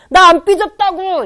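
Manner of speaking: mock angry insistence. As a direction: play the girlfriend who finally bursts out in a mock huff. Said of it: "이러는 거지".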